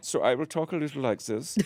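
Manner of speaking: put-on a light Austrian therapist accent; slight Austrian accent. Host plays therapist to guest in a slight Austrian accent. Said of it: "I'm going to put on a slight Austrian accent".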